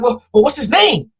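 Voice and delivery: high-pitched mock prying question; imitated curious friends. Friends asking about the guy she met, imitated curiosity.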